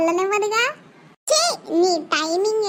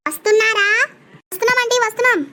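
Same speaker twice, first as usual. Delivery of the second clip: calling out; 4 semitones higher, 4 dB louder, faster than usual. Acted. Calling and answering across rooms.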